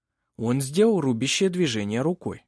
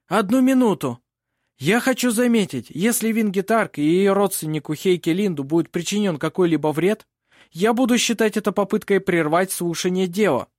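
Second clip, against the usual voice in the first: louder, higher forceful courtroom lawyer; warning advocate; 7 semitones higher, 4 dB louder than usual. A narrator's reading. Lawyer warns against harm to his clients, forceful. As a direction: halt everyone with a formal warning.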